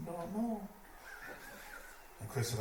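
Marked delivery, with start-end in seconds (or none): 0.1-0.7 curt reply. Retold or imitated. John's curt answer, voiced high.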